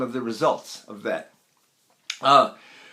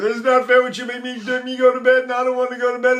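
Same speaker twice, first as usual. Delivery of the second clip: high whiny complaint, higher throughout; whining child; 7 semitones higher, 4 dB louder, faster than usual. Retold or imitated. Teacher imitates a whining child who doesn't want to sleep. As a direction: whine it like a kid sent to bed. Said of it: "a whining child".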